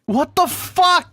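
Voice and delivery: slow, drawn-out what the fuck; stunned disbelief. Real, not acted. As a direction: stretch it out in disbelief. Disbelief at lost progress.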